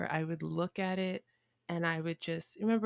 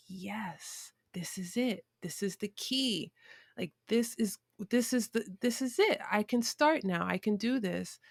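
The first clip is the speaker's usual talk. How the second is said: hushed yes building to higher excitement; thrilled realisation; 4 semitones higher than usual. Retold or imitated. Girl finding the key to her dream, thrilled realisation. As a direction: voice a kid's dawning "this is it". Voicing her childhood moment of discovery.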